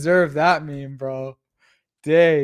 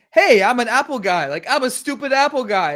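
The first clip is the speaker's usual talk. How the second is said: dopey Apple guy; 7 semitones higher, 4 dB louder than usual. Retold or imitated. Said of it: "it's basically saying".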